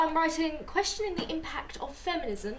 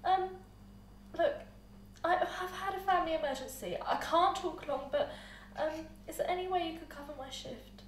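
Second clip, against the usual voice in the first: whispering on the phone; 3 semitones lower, 7 dB quieter than usual. Acted. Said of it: "whispering on the phone".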